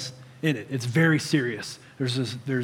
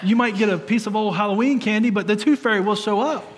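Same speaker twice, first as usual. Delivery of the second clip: laughing; 5 semitones higher, 3 dB louder than usual. Real, not acted. Jokes to daughter, laughing.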